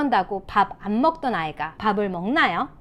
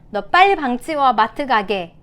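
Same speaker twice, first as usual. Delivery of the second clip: nagging parent; 5 dB louder than usual. Shown as a demonstration. Parent wanting the room cleaned, acted nagging. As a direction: act a parent hurrying a child. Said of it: "대신에".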